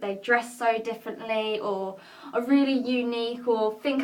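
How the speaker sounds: rehearsed, deliberate confessional delivery; measured monologue with marked pauses; dramatic monologue. Acted. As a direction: perform it as a personal stage monologue. Performs own written monologue.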